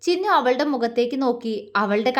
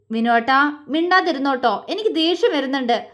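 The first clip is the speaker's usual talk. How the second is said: a mild sulky warning; annoyed. Acted. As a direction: hold back getting angry. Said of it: "അവൾ ദേഷ്യം കൊണ്ട് ചുവന്ന മുഖത്തോടെ പറഞ്ഞു". (നേരിയ ദേഷ്യത്തോടെ)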